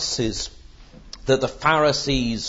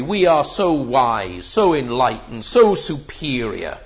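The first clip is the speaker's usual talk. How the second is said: mildly mocking self-satisfied superiority; lightly parodied smugness; intellectual snobbery; 3 dB louder than usual. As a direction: imitate a snob, leaning on each "so". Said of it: "it's an appeal to intellectual snobbery".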